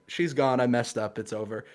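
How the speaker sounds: understated hopeless resignation; mock defeat. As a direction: retell giving up, voice dropping away at the end. Retold despair at losing her.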